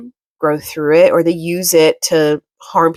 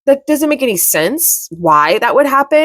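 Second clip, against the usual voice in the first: higher, puzzled inner voice; mock your own doubt, pitched up; retold disbelief; 6 semitones higher than usual. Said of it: "I'm like".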